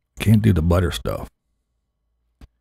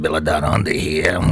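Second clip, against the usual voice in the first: imitating Billy; 4 semitones lower than usual. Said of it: "I gotta do it like Billy".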